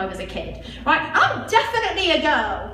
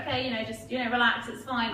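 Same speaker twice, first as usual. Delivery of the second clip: soothing; 6 dB quieter than usual. Retold or imitated.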